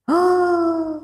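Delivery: high, sharp gasp of shock. Real, not acted. Reading the opponent's text, a sudden high gasp. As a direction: gasp as if struck by the words.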